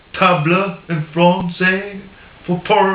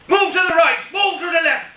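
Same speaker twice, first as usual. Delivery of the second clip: much higher, mock-exasperated Irish accent; frustrated Irish shout; 11 semitones higher, faster than usual. Paddy Irishman yelling at the spider to move, in a higher Irish accent. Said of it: "I'll do it in an Irish accent".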